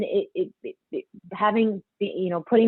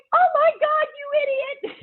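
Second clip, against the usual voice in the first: much higher, playful mock scold of her daughter; mom scolding. Mom teasing her daughter for not knowing who a musician is, high mock scold. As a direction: tease like an exasperated mom. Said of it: "She's like".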